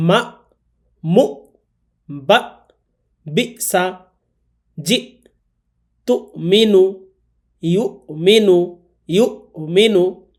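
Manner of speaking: syllables cut off sharply with a glottal stop; slow demo: মা, মু, বা each closed hard; hamza with a hard stop. Shown as a demonstration. Teacher drills the students on the hard glottal stop. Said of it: "পড়ার নিয়মটা হচ্ছে এরকম".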